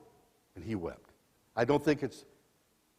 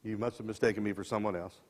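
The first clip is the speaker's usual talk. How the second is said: fearful denial; 4 semitones lower, 7 dB quieter than usual. Acted. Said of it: "He responds out of fear".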